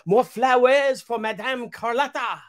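put-on proudly reciting an old bit part; stage line. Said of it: "my line was".

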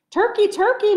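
high, loud, sugary coaxing call; sweetest voice. A narrator's reading. Moose sweetly coaxing Turkey out of his nest, high and sugary. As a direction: lure him in with a honeyed call. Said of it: "in his sweetest voice".

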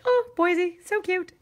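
acted-out high-pitched delight; cutesy cooing. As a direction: coo it like something adorable. Acting out her delight at Boise.

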